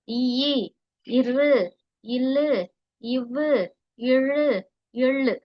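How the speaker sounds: இரு, இல்லு neither pressed hard nor softened; medium-pressed consonants. Shown as a demonstration. Teacher demonstrating idaiyinam, in-between consonant weight. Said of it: "அதை எப்படி சொல்றோம்?".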